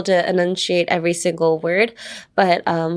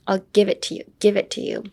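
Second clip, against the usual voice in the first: "give it" stressed in the phrase; faster than usual. Shown as a demonstration. Teacher modelling emphasis on the give it, stressed. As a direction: lean on "give", the rest lighter. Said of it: "Emphasis on the give it".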